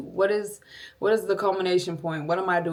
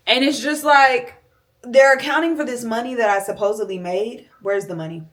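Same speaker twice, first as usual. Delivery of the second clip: exasperated venting; 5 semitones higher, 7 dB louder than usual. Real, not acted. Venting about owing money.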